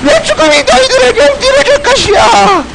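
high, hammed-up tearful cry; wailing dying hero. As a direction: wail it as mock-tragic last words. 유언을 더 울부짖듯 반복함. (울부짖듯 과장된 영웅의 유언)

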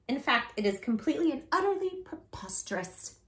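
soft whispered complaint. Real, not acted. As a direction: whisper it in disbelief. Whispered complaint about book.

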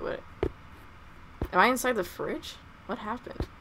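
normal talking voice

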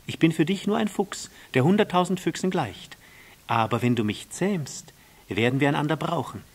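lightly voiced fox, persuasive; emphatic, animated explanation; a hint of an earnest storybook fox.

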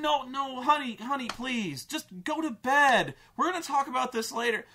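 mock dad calming her down; placating dad. Dad brushing off his daughter, mock soothing voice. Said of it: "dad dismissing daughter".

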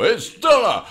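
high, loud slurred yell; drunk Sylvester Stallone. Acted. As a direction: bellow for Stella like a drunk. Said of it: "like a drunk Sylvester Stallone".

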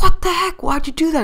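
very high, loud indignant shriek; outraged yell. Retold or imitated. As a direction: screech it as you tip over. Friend yelling after capsizing.

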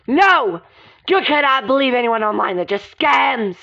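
forceful, half-shouted refusal; aggressive yelling. Acted. Serena rejecting online dating to a friend, aggressive yelling. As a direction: snap back, dragging out the final warning. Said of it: "why are you yelling at me like that?".

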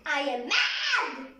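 slow, shouted pretend anger; mock mad shout. Girl announcing to viewers, playfully mad shout. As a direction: stomp it out like a cross kid. Kid declaring she is mad.

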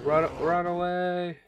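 high, drawn-out panicked call; hammed-up flee from danger; mock panic. Gamer fleeing the polar bear in mock panic.

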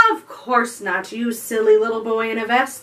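a touch of haughty scolding, quick at the end; huffy mermaid. Acted. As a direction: brush off the silly boy. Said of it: "the dugong said".

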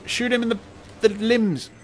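high panicked shouting; panicking gamer. Real, not acted. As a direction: yell it in a frantic panic. Panicked shouting at enemy soldier.

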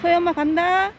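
loud, high call across the water. Real, not acted. Owner calling her dog across the stream, loud high call. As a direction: call to the dog far away.

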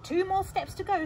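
high, loud thief's voice; storybook thief. Acted. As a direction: call it like an eager burglar. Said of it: "said Hugh".

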